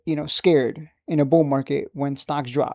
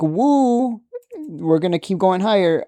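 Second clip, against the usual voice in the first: mock cheer; 4 semitones higher than usual. Mocking dip buyers.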